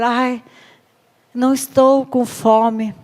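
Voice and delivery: whiny sulk. Acted. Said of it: "pra sentimentalizar".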